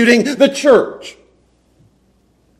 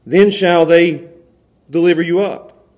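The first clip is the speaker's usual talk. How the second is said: slow word by word; 4 semitones lower, slower than usual. Shown as a demonstration. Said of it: "go word by word down through here".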